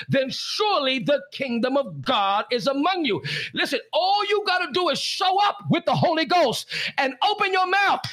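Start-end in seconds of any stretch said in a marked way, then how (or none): 3.5-8.0 rising preaching shout. Real, not acted. Preacher urging pastors, rising to a shout. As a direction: push it out like a preacher in full cry.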